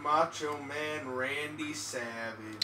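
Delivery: slow, drawn-out wrestler impression; softly attempted celebrity wrestler voice; Macho Man Randy Savage. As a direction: stretch it out like a wrestling legend. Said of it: "I don't know if I can do that voice".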